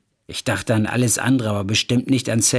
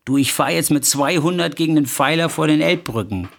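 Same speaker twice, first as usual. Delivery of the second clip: mild, slightly raised acted threat; desperate threat; 3 semitones higher than usual. Husband phoning his wife from the car, desperate threat. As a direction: threaten in desperation, without shouting. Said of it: "um ihr zu drohen".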